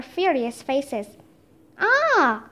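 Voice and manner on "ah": high, falling "ah"; storyteller's understated horrified wail; restrained cry of horror. A narrator's reading. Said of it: "cried Leonardo with a look of horror".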